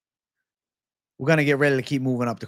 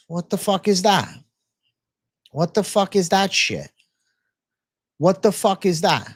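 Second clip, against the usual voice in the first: exasperated rant; 4 semitones higher than usual. Real, not acted. Streamer rants at chat's complaint.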